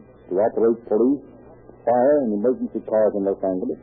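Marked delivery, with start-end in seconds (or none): none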